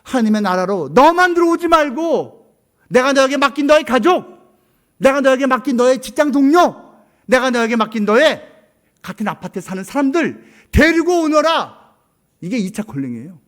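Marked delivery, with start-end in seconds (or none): 0.0-11.9 loud, high preaching as God's voice; booming divine call. Acted. 하나님이 성도에게 외치는 명령, 높고 크게. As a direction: proclaim God's command with force.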